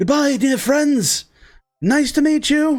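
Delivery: warped, distorted, very high-pitched shouting. Narrator telling the players the voice they hear: a distorted shout. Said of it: "like shouted, but it kind of gets distorted".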